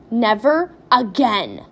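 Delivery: slow, loud, spent exclamation; gasped. A narrator's reading. Mother after the wild ride, gasping. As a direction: get it out slowly, as if winded. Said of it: "gasped Missus T V".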